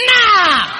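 high, loud, punched-out declaration; energetic shout. Shown as a demonstration. Preacher drilling the congregation with energy, shouting. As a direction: fire each word out for echoing. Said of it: "Say that with energy".

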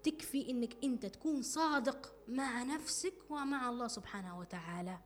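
slow down to drive the main point home; slow emphatic repeat. Shown as a demonstration. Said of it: "هذه أهم نقطة".

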